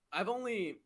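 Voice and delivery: words pushed out around burps; burping the words. Real, not acted. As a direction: talk through a burp. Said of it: "I'm burping a lot".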